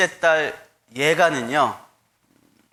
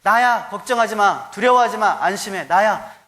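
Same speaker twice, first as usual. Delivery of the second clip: reassuring Jesus; 4 semitones higher, 4 dB louder than usual. Retold or imitated. Jesus reassuring frightened disciples.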